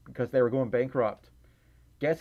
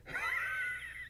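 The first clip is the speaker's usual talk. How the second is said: squeaky high laugh; 10 dB quieter than usual. Real, not acted. Laughing at own breathless demo.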